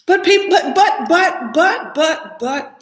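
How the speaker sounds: mock stammer. Stammering buts mimicked.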